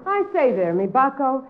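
stage-Irish brogue, coaxing; put-on Irish accent. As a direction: sweet-talk him in an Irish lilt. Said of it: "picked up that accent".

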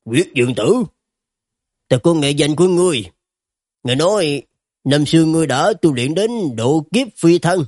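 mildly startled character voice; a touch of amazement; astonished. Acted. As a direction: react in surprise to a known name. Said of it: "Dương Bình Thành kinh ngạc".

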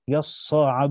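يصعد as yaṣṣāʿadu, long a after the sad; يصعد with a long alif sound drawn out; reading with alif. Shown as a demonstration. Teacher giving Abu Bakr's reading with the alif. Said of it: "بالألف".

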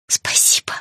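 weak, voiceless thanks; whispered. A narrator's reading. Patient thanking the dentist, whispering. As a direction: whisper it feebly. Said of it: "прошептала я".

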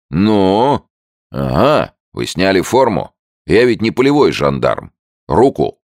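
loud friendly soldier voice; hearty soldier. A narrator's reading. American soldier to Andrews, brash and loud.

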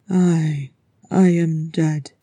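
slow, forceful rasp. Acted. Thorin tells Gimli of his death, rasping. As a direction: rasp it out haltingly. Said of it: "Thorin rasped".

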